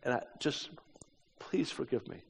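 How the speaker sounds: subdued apology sinking to a soft plea; retold tearful plea. Man asks his hostess to forgive his country, mildly tearful plea. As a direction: plead quietly, only a hint of weeping. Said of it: "weeping tears".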